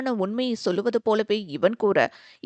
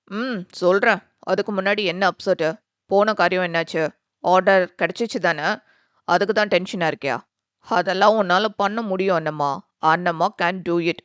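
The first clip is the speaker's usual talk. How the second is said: lightly lowered, cheering her on; encouraging brother; 3 semitones lower, 3 dB louder than usual. Acted. Brother cheering up his sister on the phone, lightly voiced. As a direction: lift her spirits.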